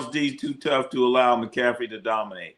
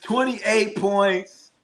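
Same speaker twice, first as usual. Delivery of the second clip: laughing disbelief; 9 semitones higher, much slower than usual. Real, not acted.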